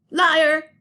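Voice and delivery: sudden loud accusing yell; angry shout. Acted. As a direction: hurl the word at him, furious. Boy accuses another of lying.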